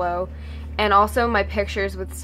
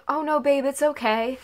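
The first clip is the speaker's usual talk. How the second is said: a touch of gentle, higher-pitched comfort, imitating Sabrina; sincere reassurance; 6 semitones higher than usual. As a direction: reassure a worried fan kindly, mildly acted. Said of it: "you could tell it was sincere".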